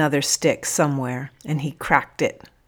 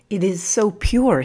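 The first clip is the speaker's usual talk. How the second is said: reverent awe, voice lifted higher; 5 semitones higher, 4 dB louder than usual. A narrator's reading. Man looking into the narrator's eyes, reverent. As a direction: say it in wondering reverence. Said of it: "with a kind of reverence".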